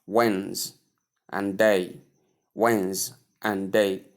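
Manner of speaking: Wens and day, each part set apart; syllable by syllable. Shown as a demonstration. Teacher splitting Wednesday for learners, syllable by syllable. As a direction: break it into Wens, then day, low and measured. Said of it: "There are two syllables there".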